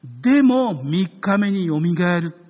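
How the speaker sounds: Jesus foretelling the resurrection, slow and loud; emphatic promise. Acted. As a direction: land the promise with weight. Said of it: "と".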